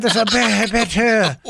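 slow, drawn-out mock French accent. Host wonders how the candidate says his name, mock French accent. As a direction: put on a hammed-up French Beto. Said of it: "Does he say it with a French accent?".

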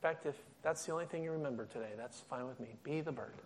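quiet heartfelt close; hushed appeal. Real, not acted. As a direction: lean in and say it gently. Intimate softened appeal.

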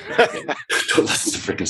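amused, laughing as you take back the joke. Real, not acted. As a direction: start with a laugh and talk through it. Laughs at his own joke answer.

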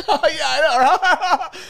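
very high, loud laugh through the words; hammed-up panicky laughing fit; imitated terror laughing. Man awkwardly gets up before his girlfriend, terror laughing. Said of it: "like, terror laughing".

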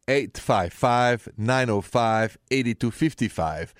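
slow each digit so they can write it down; slow, clear digits for callers; slow, deliberate number. Shown as a demonstration. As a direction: spell the number out slowly. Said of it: "What is the number to dial right now".

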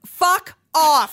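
loud, high fuck off; angry dismissal. Real, not acted. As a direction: spit it out in disgust. Ranting at the media.

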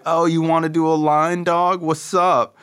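high-pitched imitation of an eager buddy; eager offer. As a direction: pitch it up, mimicking a friend's invitation. Retold friend's casual offer.

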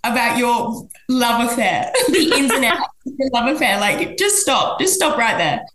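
tired, laughing "just stop"; exasperated. Retold or imitated. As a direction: shut her down, laughing in disbelief. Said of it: "'cause I'm like".

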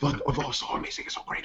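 barely audible croak of enthusiasm; imitated lost voice. Mimicking a friend at PAX who lost it, lost-voice imitation. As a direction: gush with almost no volume, as if the voice has gone. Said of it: "dude, you lose your voice".

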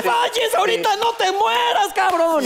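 high, slow pleading falsetto; mock desperate plea to himself. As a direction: beg in a squeaky high voice. Begging his body during sex.

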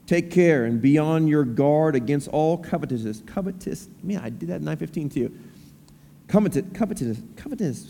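measured, deliberate Bible reading; scripture reading. Acted. Pastor reads Luke to the standing congregation in a measured scripture-reading voice. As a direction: read the text to the standing congregation.

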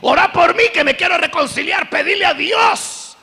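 mock desperate plea, high, loud and slowed; hammed-up begging for prayer; pleading. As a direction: boyfriend on his knees begging, mock plea. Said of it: "le dice".

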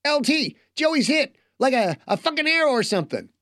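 panicked high walkie-talkie voice; fast, frantic radio chatter; tinny voice. Acted. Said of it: "a rushed, tinny voice".

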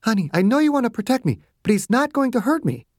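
whispering to her partner that she is safe, tender; tender Margaret. A narrator's reading. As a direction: reassure him gently in the woman's voice. Margaret reassures Clarence.

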